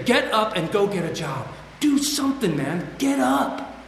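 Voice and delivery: a self-directed mock order to get moving; urging himself on. Talking to himself on the couch, urging himself to get up. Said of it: "I would say".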